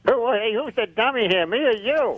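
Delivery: lightly voiced cheeky dummy; a hint of a wisecracking puppet. Puppet needling the host, lightly put-on dummy voice. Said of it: "you and the puppet's voice".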